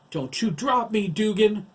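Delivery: high, loud panicked order; urgent, high-pitched yell; desperate shout. A narrator's reading. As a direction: shout it while dangling for dear life. Dangling character orders her rescuer.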